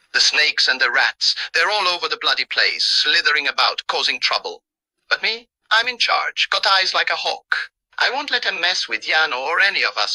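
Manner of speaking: rough Cockney tough-guy threat; angry Cockney accent. Acted. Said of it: "imitates the angry Cockney accent".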